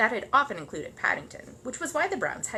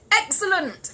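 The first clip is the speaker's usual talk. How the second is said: high, loud exclamation; delighted; 11 semitones higher, 8 dB louder, slower than usual. Acted. Neighbour slapping his knee at the trick, delighted. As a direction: burst out with delight.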